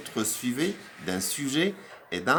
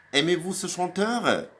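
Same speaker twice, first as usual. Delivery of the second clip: higher example voice, falling on chanteur; inverted question; 7 semitones higher than usual. Shown as a demonstration. Teacher reading an inversion example to the class, higher pitch. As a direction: read the formal question cleanly. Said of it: "j'ai inversé".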